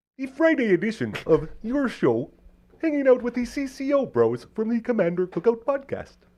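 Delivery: very high-pitched voice squeezed from the throat. Speaker introduces the podcast episode in a throaty Kermit the Frog voice. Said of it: "I think you're too throaty for Kermit".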